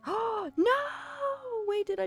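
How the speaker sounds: sudden gasping alarm; shocked cry. Real, not acted. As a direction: caught off guard by a blunder. Reacting to game mistake.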